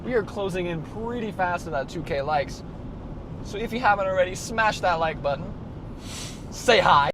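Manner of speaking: YouTuber voice. Acted. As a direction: pump up the audience like a YouTuber. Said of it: "Here comes the YouTuber voice".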